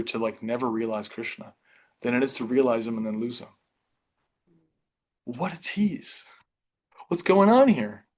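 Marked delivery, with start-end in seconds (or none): 5.2-8.0 higher, incredulous outburst; mildly exasperated, pitched up; mock dismay. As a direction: act out baffled frustration, rising at the end. Voices Narada's dismay at losing vision.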